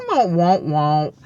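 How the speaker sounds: mock sad-trombone womp, stepping downward. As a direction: imitate a comic failure horn. Mocks own letdown with trombone noise.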